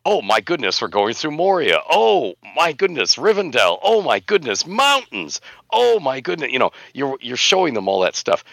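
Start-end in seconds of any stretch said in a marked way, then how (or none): 0.0-6.5 growing wide-eyed wonder; awed sightseer, building. Retold or imitated. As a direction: voice climbs higher with each "oh my goodness". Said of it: "You wanna show them".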